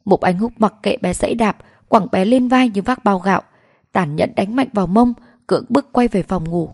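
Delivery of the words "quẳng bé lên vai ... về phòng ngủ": usual speaking voice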